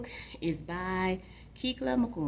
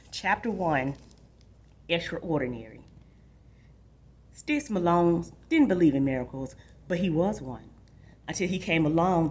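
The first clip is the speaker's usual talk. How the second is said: lively read-aloud narration with rising excitement; story narration. A narrator's reading. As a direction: read it to the class like an adventure story. Reads chapter aloud to students.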